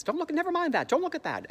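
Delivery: high-pitched mock fluster; playful high-voiced cover-up; hurried distraction. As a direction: wave their attention away. Acting hurried distraction of audience.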